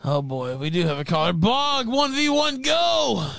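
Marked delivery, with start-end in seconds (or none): 1.3-3.3 excited announcer call. Real, not acted. Host calls the caller into the ring, excited shout. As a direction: hype the caller in like a fight.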